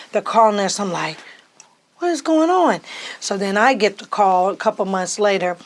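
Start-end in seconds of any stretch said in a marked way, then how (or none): 2.0-2.8 high, baffled question; pitched-up confused ask; surprised. Retold or imitated. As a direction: sound totally thrown by the call. Confused call from work.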